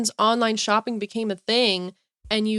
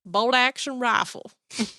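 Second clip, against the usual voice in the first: imitated country kid, breaking into a laugh; thick country accent. Kid naming God's creations, imitated thick country accent. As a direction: mimic a country boy's accent. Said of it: "like, thick country accent".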